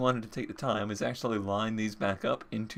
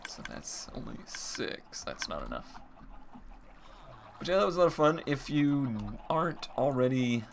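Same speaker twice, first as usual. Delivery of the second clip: usual speaking voice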